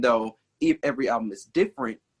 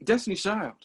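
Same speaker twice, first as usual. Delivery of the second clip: odd emphatic answer; 7 semitones higher than usual. Real, not acted. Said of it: "you say it like that".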